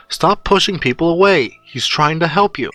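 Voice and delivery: insistent scolding. Acted.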